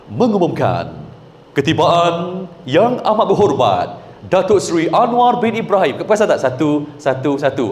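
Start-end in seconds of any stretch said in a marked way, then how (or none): 0.1-6.0 deliberate MC announcement in separated phrases; measured announcer intonation. Shown as a demonstration. MC announcing the Prime Minister's arrival, measured and phrased. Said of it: "ada orang dia suka guna bang".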